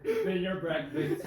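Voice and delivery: slow, laughing through the words; barely holding back laughter. Acted. Repeated through laughter, slower.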